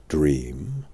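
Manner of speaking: put-on an old wizard doubting the word; a hint of a knowing old man; Merlin. Merlin answers Arthur.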